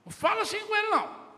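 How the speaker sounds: loud, high, fast repeat of the scolding; angry rebuke. Retold or imitated. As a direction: snap the line back at her quickly. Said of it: "o pai na frente da mãe disse assim".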